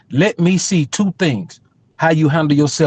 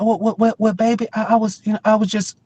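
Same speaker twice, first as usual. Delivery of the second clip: put-on meek boyfriend; 5 semitones higher, 3 dB quieter than usual. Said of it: "He's like".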